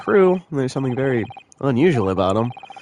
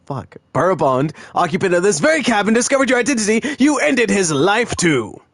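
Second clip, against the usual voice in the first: a hint of a theatrical sleuth, higher; lightly voiced grand detective; 5 semitones higher than usual. Streamer voicing a detective in a game, lightly theatrical. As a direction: play the smug detective, showy.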